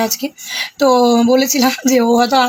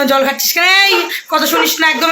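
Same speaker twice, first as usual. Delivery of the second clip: raised, half-shouted scolding of the pet; mock scolding shout; 4 semitones higher than usual. Retelling how mother shouted at the pet, scolding. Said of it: "এরম বলছে".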